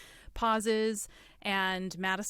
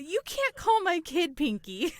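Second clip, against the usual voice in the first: higher, laughing mock outrage; laughing protest; 8 semitones higher, 4 dB louder than usual. Real, not acted. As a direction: protest while cracking up.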